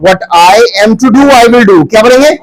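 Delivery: projected prompts, pausing for the chorus; classroom drill call-out. Real, not acted. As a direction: call out each phrase for the class to repeat.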